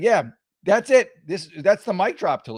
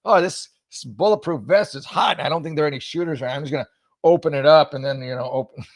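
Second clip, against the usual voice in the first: mock mayor voice. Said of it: "he finds some reason to, like".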